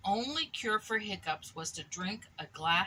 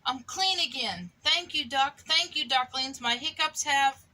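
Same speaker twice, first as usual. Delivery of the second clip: cheerful; 5 semitones higher, 5 dB louder than usual. Acted. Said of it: "with a smile".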